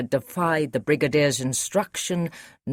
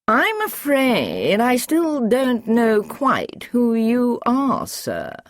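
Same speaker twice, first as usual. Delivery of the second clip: slow, higher, bemused; puzzled Masters; 8 semitones higher, 3 dB louder, much slower than usual. Acted. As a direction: wonder aloud who he is.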